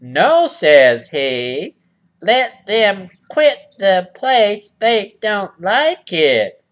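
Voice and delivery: he drags out the porcupine's smug refusal; porcupine reread. Shown as a demonstration. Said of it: "let me read that again".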